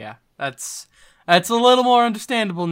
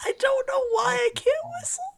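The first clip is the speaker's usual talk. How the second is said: mock wail; 13 semitones higher, 4 dB louder than usual. Mock despair continues, louder.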